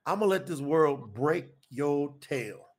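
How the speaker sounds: measured, weighty quoted pronouncement; solemn divine pronouncement. Retold or imitated. Voices God speaking to him.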